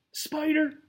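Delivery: high, loud outraged cry; indignant roar. Acted. Tarantula roaring at being called a spider. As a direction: bellow at the insult. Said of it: "roared Jose indignantly".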